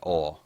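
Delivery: "oil" as a low Southern "ol"; Southern pronunciation of oil. Shown as a demonstration. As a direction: say "oil" with no "ee" glide, like "awl". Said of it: "It's a Southern thing".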